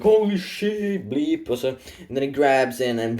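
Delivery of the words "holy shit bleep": shocked cry. Acted. Cultist panics as demon appears.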